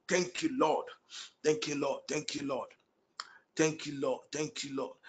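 soft, hushed thanks to the Lord under the breath; quiet prayerful murmur. Real, not acted. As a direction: whisper a private thank-you to God. Murmured prayer between prophecies.

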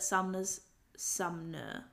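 "Sumner" said slowly as SUM-nuh; careful pronunciation. Shown as a demonstration. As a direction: draw out "Sumner", m before n. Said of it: "Is it Sumner or Sumner?".

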